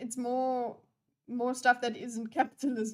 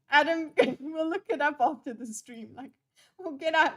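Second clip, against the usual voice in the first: dad voice; 2 semitones higher, 3 dB louder than usual. Retold or imitated. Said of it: "He sounds like a dad".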